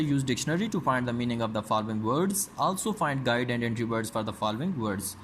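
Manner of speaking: very slow, word-by-word reading for students; slow textbook reading. Shown as a demonstration. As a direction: read it out slowly like dictation. Reads exercise instruction. (धीमी आवाज़ में पाठ पढ़ना, शब्द-दर-शब्द)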